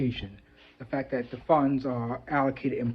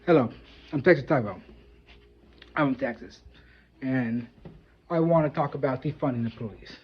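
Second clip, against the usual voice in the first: second try at Texas; 2 semitones lower than usual. Shown as a demonstration. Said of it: "Let's try something else".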